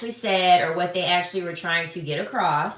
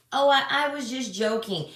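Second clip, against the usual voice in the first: pitched up, faux innocent "I was just joking"; mock sheepish excuse; 6 semitones higher than usual. Mocking men who joke it off, high faux innocent. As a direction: play the innocent. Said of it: "when men say".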